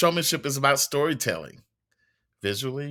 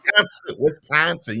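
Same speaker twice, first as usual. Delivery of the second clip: higher, louder Wisconsin accent; 4 semitones higher, 4 dB louder than usual. Shown as a demonstration. Correcting the host on the state, Wisconsin accent. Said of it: "You gotta do it in the accent".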